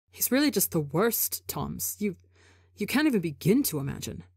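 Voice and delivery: odd tone. Acted. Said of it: "Rambu says in an odd tone".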